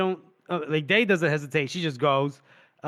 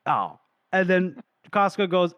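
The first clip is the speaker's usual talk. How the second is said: ordinary talk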